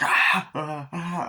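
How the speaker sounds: short high-pitched mock screams; mock nightmare scream. Recalling the killings in his nightmares, mock screams. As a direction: imitate someone crying out in a nightmare.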